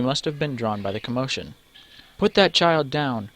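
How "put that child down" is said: higher, louder, slow command; fierce repeat. Acted. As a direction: repeat it with more force. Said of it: "repeats Chara".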